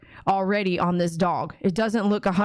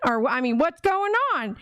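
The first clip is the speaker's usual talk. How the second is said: mock-bewildered, higher voice; confused friend; 6 semitones higher than usual. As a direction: play her puzzled and thrown. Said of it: "she's like".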